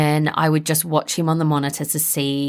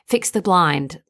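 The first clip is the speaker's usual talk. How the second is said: high, loud call on mummy, then a plain ask; mock toddler plea; imitating toddler; 6 semitones higher, 3 dB louder than usual. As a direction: toddler stalling at bedtime. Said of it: "he'd be like".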